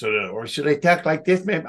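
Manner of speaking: a different put-on character voice; second voice option. Shown as a demonstration. Carney tries second voice before the show, put-on. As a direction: flip to a cartoonish voice.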